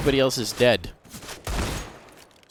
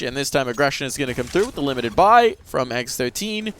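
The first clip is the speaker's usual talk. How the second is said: ordinary delivery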